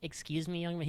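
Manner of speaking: mild teacherly politeness, put on; mock polite. What the teacher didn't say to the kid, mock polite. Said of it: "he didn't say".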